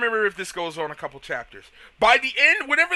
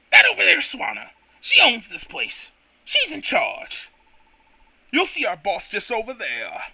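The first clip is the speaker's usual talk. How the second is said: light Toad voice. Acted. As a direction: point it out in a squeaky voice. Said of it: "it's either Toad or nothing".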